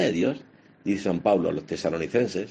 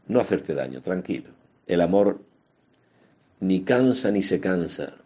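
calm, elegant tone. Retold or imitated. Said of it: "Con una elegancia".

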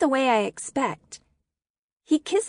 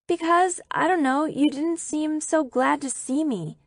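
higher-pitched, hesitant excuse; lame, trailing off; 6 semitones higher than usual. A narrator's reading. Girl explaining to Peter why she was leaving, lamely. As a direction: falter upward into an awkward explanation. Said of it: "My voice trails off lamely".

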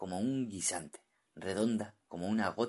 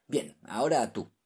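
commanding; 4 semitones higher, 6 dB louder than usual. Acted. Captain orders the diver.

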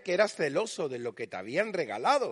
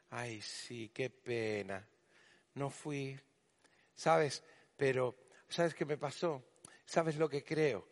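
chismosa en voz baja; 5 semitones lower, 7 dB quieter, slower than usual. Retold or imitated. Hermanita chismosa que no vino.

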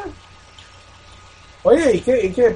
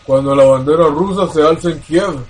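villain voice; 4 semitones lower, slower than usual. Retold or imitated. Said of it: "Putin se puso la máscara y le dijo".

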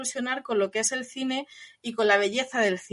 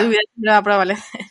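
acted shouted quote; 8 dB louder, faster than usual. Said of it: "le dice".

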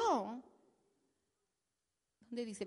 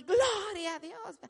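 mock shouted praise; 5 semitones higher than usual. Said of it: "se acostumbraba así".

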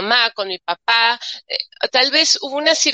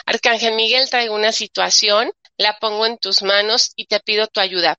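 prayer. Shown as a demonstration.

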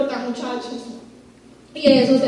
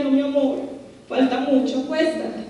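soft, tender mother's voice; tender hush; 4 dB quieter than usual. Retold or imitated. Mother soothing her crying son at bedtime, soft and tender. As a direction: gently send a child to bed.

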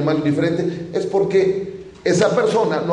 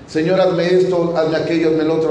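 mock demanding prayer. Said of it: "Como si fuera el muchacho que va por los mandados".

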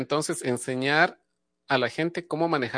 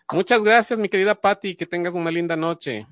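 higher and louder, beaming farewell; effusive thanks; 3 semitones higher, 4 dB louder than usual. Real, not acted. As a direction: thank her again with a big lift. Host thanks caller, then repeats. (agradecimiento efusivo, más agudo y más fuerte)

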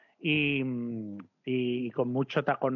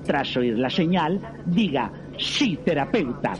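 automated airline announcement; 6 dB louder than usual. Acted. Automated airline service pitch.

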